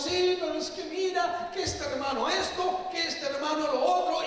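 high-pitched griping about a fellow believer; mock complaining. Churchgoer grumbling about a brother in the faith, mock complaining.

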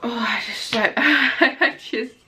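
fighting tears with a small laugh; falter, holding back real tears; close to tears. Real, not acted. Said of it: "trying to pull myself together".

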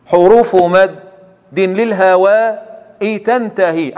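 prompting the student by reciting the rest; continued recitation. Shown as a demonstration. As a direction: carry the verse on, stretching its end. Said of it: "ها، كمل".

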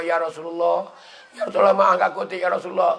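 acting a weary deathbed apology; exhausted dying plea. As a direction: plead as if worn out and short of breath. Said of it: "Tu ada letih dah tu". (lakonan rayuan orang nazak yang keletihan)

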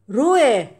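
loud stern orders to the pet; loud mock command. Owner loudly ordering her cat to stay put.

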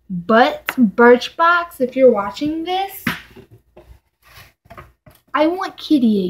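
loud, emphatic real demand; mad. Real, not acted. Vlogger addressing the box company over a broken item, mad. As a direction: lay down the demand, punching each word. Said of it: "made me mad".

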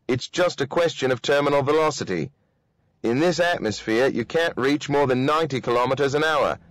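lightly voiced commander giving firm orders; a hint of brisk authority; stern commander.

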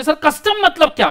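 high, loud student asking; curious student. Retold or imitated. Teacher voicing a student asking what custom means, high and loud. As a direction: pipe up like a puzzled student. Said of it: "अभी आप मेरे को पूछोगे".

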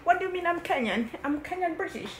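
mock British accent, lightly done; a kid faking a British accent; put-on British accent. Sister teased for her mock British accent. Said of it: "Stop talking that way".

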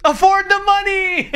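"Afford the money!" shouted high and slow, stress on "the"; mock outrage. Real, not acted. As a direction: bellow "Afford the money!" in disbelief. Repeats odd phrase, shouting.

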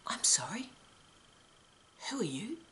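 very soft, puzzled question with rising ends; quiet, deadpan show of confusion; mock confused. Shown as a demonstration. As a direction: feign polite bafflement, hushed and spaced out. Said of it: "look a bit confused and state".

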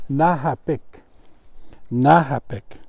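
"Nahapik" with the final k softened almost to a g; teaching pronunciation. Shown as a demonstration. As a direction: model "Nahapik" clearly, its k like a soft g. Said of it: "the K almost sounds like a G".

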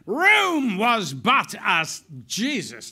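loud, high declaiming that breaks off; rip-roaring. Retold or imitated. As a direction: imitate a roaring actor in full flow. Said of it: "He was rip-roaring and ready to go".

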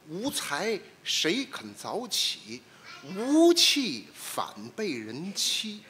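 slow, drawn-out verse recital; recitation. Shown as a demonstration. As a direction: recite each line slowly and grandly. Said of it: "懂这四句话？".

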